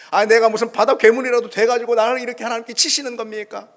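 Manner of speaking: protesting. Retold or imitated. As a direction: demand it of God loudly. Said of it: "그렇게 항변합니다".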